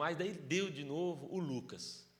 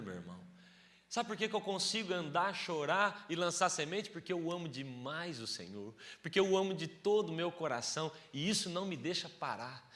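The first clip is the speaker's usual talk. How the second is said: full-force preaching; 4 semitones higher, 5 dB louder than usual. Acted. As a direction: drive the message home to the church.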